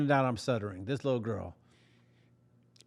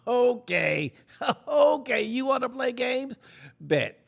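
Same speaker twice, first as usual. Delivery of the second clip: rising, loud scheming threat; mock menacing; 10 semitones higher, 3 dB louder, slower than usual. Boy silently vowing revenge on Amber, menacing. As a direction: taunt her like a cartoon villain. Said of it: "whole time I'm like".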